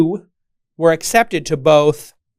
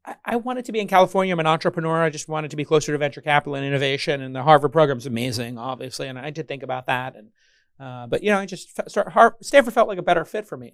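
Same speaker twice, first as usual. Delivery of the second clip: put-on defensive Stanford kid. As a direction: play the defensive Stanford grad, pitch up. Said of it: "the Stanford kids are just like".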